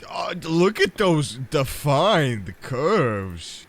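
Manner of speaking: loud, high-pitched flustered outburst; flustered gawking. Pretend. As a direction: gawk out loud, voice jumping up. Gawking at approaching giant figure.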